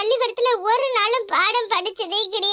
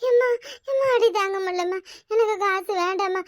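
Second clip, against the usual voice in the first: sobbing plea. Acted. Daughter beaten, begs mother stop.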